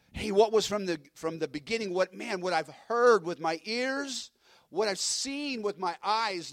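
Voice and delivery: earnest, emphatic first-hand witness, slowing at the end; emphatic testimony. Acted. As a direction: testify like you were really there. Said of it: "This is the way John would have said it".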